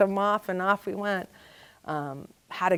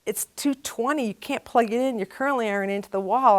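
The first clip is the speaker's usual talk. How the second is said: exasperated explaining; 5 semitones higher than usual. Retold or imitated. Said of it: "And he's like, he's like".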